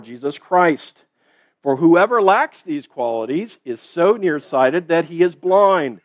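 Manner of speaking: whole congregation reading aloud together; many voices in unison. Real, not acted. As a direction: read it aloud as one crowd. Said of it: "Okay, let's read it together".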